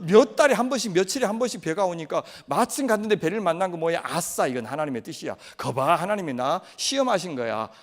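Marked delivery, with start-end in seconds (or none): 4.0-7.7 smug glee. Acted. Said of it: "라고 생각해서 탔죠".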